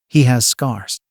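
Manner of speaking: a touch of startled surprise; mild amazed realisation; startled wonder. Acted. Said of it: "she thought in startled wonder".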